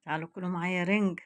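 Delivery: loud, quick call to come eat. Real, not acted. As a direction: call everyone over to the table. Inviting viewers to eat herring. (نداء عالي للأكل)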